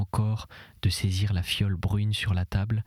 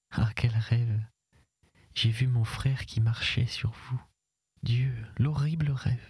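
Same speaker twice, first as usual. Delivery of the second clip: waking from a nightmare; 2 semitones higher than usual. A narrator's reading. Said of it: "me dit-elle ... d'une façon presque convulsive".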